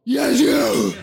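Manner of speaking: very high, drawn-out put-on shout; imitating booming stage speaker. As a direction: confirm the pick across a big hall. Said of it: "Han pratar ju så". (härmar talare som ropar högt)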